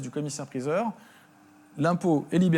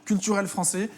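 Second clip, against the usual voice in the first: higher-pitched urgent curator cutting in; museum curator; 5 semitones higher than usual. Pretend. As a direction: burst in to claim it for the museum. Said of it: "Je suis le conservateur du musée de la raquette".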